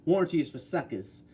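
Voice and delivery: lightly performed catchphrase, evenly paced; imitating a commenter's catchphrase. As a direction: quote it like the commenter says it. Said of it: "He says it like that".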